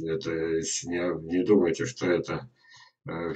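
usual speaking voice

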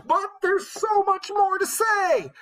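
very high squeaky put-on voice; mock protest. Pretend objection to the chapter ending, squealed high. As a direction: wail it slowly, way up high.

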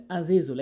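আজিজুল opened with a throaty ain; আজিজুল with a clear ain; proper ain. Shown as a demonstration. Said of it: "আইনের উচ্চারণ আজিজুল বলতে হবে".

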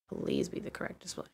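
whispered plea then whispered yes; whispered fingers-crossed plea; whispered hope. Real, not acted. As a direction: hush it like a secret prayer. Hoping settings work.

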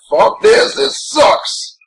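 mock Hulk grumble climbing high at the end. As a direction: gripe like an annoyed Hulk. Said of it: "Hulk being like".

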